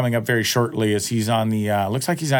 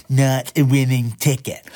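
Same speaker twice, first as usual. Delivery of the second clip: mock machine voice. Quoting the lottery machine again.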